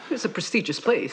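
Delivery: talking around a biscuit; words through a mouthful of biscuit; mouth full. Real, not acted. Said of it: "I've got a biscuit in my mouth".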